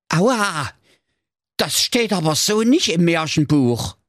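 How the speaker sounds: a hurt wolf complaining; whining beaten wolf. Acted. Verprügelter Wolf beschwert sich.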